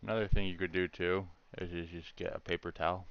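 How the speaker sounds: talking around a paintbrush in the mouth. Real, not acted. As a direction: speak with a brush clamped between the lips. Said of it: "I'm talking with the paintbrush in my mouth".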